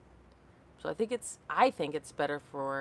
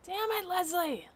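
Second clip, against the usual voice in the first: dismayed cry; 12 semitones higher than usual. Real, not acted. Reacts to friend's sun damage.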